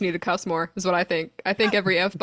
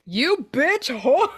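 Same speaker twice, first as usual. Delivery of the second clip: slow, louder laughing curse at a broken thing; 7 semitones higher, 4 dB louder, much slower than usual. Retold or imitated. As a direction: drag the curse out through laughter. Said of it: "be like".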